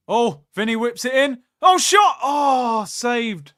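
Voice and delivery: loud, high shout at the shot; live reaction to the save; excited commentary. Real, not acted.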